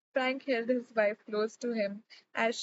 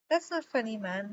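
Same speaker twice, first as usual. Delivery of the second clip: serious. Acted. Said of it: "Declan said seriously".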